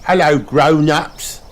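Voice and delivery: high, slow announcing puppy voice; cartoon pup on a microphone; Danny Dog voice. A narrator's reading. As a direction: greet them like a little announcer. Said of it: "he says".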